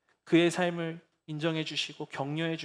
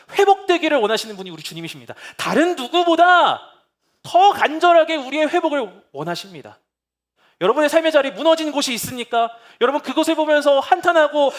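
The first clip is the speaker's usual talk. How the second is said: louder, higher passionate pulpit voice; fervent preaching; 10 semitones higher, 11 dB louder than usual. Acted. 설교자가 회중에게 호소하며, 열정적인 설교. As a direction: preach it out with full force.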